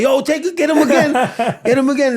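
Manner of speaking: high, loud mock yell; retold urgent call. Telling bouncers to grab the man again, mock urgent yell. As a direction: call out frantically for help, in retelling.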